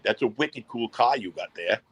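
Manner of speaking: slow New England demo, dropped Rs; relaxed, slowed New England accent. Shown as a demonstration. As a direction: show off the New England "cah" and "theah". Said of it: "We do say wicked".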